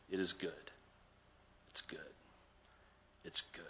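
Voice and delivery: hushed and gentle, almost murmured; soft God voice. Acted. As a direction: say it softly, like a quiet blessing. Preacher voicing God softly.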